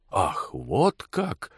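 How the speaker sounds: slow, drawn-out "oh, really"; affronted menace. A narrator's reading. Gentleman driver to the insolent blacksmith, slow affronted reply. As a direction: draw it out as a challenge accepted.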